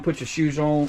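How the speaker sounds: words slurred by a numb face; stiff cold face. Real, not acted. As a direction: talk through a frozen face. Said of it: "my face is so cold I can barely talk".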